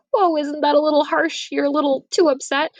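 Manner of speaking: high, gently protesting women; a touch of alarmed pleading; wife and nurse calming the father; mock concerned protest. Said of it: "kind of are like".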